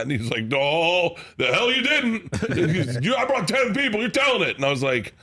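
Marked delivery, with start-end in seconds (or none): 0.4-4.6 high, pushy fan voice pressing him; mock insistence from a fan; insistent fan.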